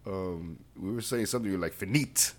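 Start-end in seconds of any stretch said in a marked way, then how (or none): 1.7-2.3 mock stern bark, loud on the last word; Hitler-like outburst. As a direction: imitate a friend's sudden Hitler turn. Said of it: "you got Hitler on me".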